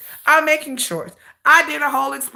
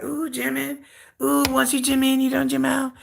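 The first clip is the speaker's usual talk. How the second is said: mocking fans; 3 semitones higher, 3 dB quieter than usual. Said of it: "all the singer's fans are like".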